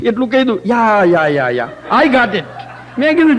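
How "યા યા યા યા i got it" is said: lightly voiced coworker, slow and laughing; a hint of a dismissive American colleague; coworker brushing off. Bank coworker told about sensitive teeth, mild mock brush-off.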